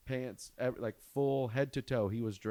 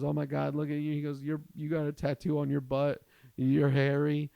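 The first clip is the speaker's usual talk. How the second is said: mocking kid; 4 semitones higher, 5 dB louder than usual. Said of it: "He's laughing. He's making fun of me".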